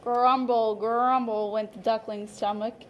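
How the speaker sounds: lively, expressive picture-book narration; storyteller voice for a class of young children; reading to children. A narrator's reading. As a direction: read it like story time for little kids. Teacher reads picture book aloud.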